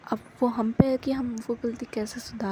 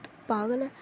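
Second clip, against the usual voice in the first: tender. Acted. Jasmine gently scolds Kashish while holding her hand, tender. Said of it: "बड़े प्यार से".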